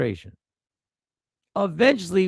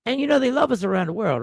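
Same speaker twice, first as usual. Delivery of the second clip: sarcastic; 5 semitones higher, faster than usual. Real, not acted. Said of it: "I'm being facetious".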